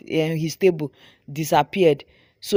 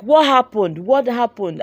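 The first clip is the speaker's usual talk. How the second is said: retold scream; 3 semitones higher, 4 dB louder, slower than usual. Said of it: "I screamed".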